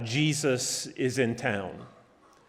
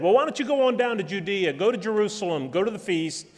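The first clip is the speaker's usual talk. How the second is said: sarcastic; 6 semitones higher, faster than usual. Retold or imitated. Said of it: "the brothers sarcastically said".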